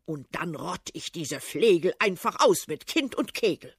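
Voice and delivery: put-on loud threatening old tsar; lightly voiced tsar, loud and furious; blustering tsar. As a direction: rant and threaten. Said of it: "Doch der Zar beginnt zu schreien".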